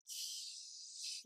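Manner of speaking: a soft unvoiced shush; a retold ghostly shush. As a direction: hush him without voice. Ghost Sarah silencing Will.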